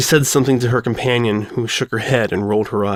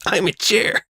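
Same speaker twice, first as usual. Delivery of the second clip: laughing; 9 semitones higher than usual. Real, not acted. Laughing at chair squeak.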